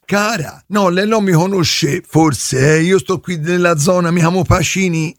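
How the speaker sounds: lightly put-on yokel caller voice; prank caller voice. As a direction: play a dim neighbour on the phone.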